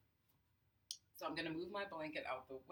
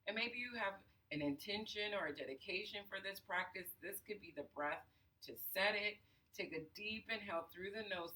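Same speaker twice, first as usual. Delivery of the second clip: guided breathing; 3 semitones higher than usual. Acted. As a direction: count the breaths, unhurried and soothing. Leads a breathing exercise.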